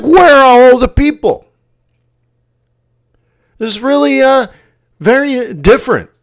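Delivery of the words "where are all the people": high, louder bewildered question; baffled. Retold or imitated. Alone on empty roads, asking aloud, high and baffled. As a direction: ask it as if truly lost. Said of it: "I'm like".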